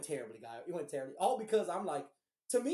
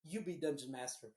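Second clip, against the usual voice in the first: fed-up DM; 4 semitones lower than usual. Retold or imitated. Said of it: "he got so pissed".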